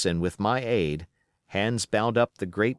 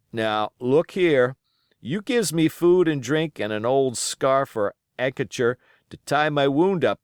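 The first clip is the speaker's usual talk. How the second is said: put-on wounded old pirate, pushing a bargain, louder; 4 semitones higher, 4 dB louder than usual. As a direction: haggle hard with the boy.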